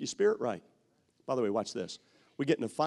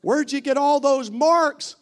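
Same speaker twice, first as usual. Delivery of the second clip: high, louder nosy question; mock curious friend; 13 semitones higher, 9 dB louder than usual. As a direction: ask about the bruises.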